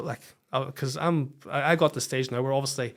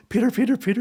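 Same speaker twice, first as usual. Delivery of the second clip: much higher and louder, breathless calling of his name; excited wife calling; 10 semitones higher, 7 dB louder, faster than usual. Retold or imitated. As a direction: call him urgently with huge news. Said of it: "And she came in".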